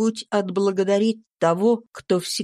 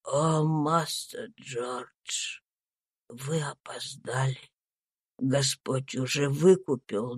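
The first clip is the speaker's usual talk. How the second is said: slow, very soft, lower breathy whisper of a dying man; dying Tom comforting himself, a faint slow whisper; weak dying voice; 6 semitones lower, 5 dB quieter, slower than usual. A narrator's reading. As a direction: barely breathe the words out. Dying Tom answers gently.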